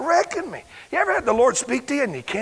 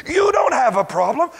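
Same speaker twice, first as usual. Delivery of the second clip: loud, drawn-out preacher's shout; hammed-up revival preacher; Schambach quote; 9 semitones higher, 3 dB louder, much slower than usual. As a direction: boom it like an old revivalist. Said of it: "R W Schambach said".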